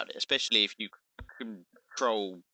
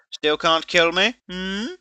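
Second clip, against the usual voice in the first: smug taunt; 9 semitones higher, 5 dB louder, slower than usual. Retold or imitated. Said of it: "you're like".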